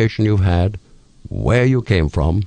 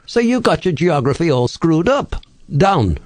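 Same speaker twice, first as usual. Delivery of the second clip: higher-pitched northern English accent; North Country accent; 8 semitones higher than usual. Shown as a demonstration. Host demonstrating how people talk up north, North Country accent. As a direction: put on a broad North Country voice. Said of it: "if you go up north to North Country".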